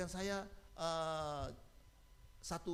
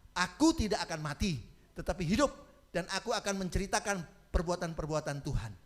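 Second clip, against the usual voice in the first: louder scripture proclamation; declaring aloud; 2 semitones higher, 6 dB louder than usual. Shown as a demonstration. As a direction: recite the verse boldly. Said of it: "Sama-sama, satu, dua, tiga".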